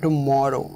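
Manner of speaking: "tomorrow" leaning on the middle "mor"; stress on O. Shown as a demonstration. Teacher demonstrates "tomorrow", stress on MOR. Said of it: "ओ पर stress है".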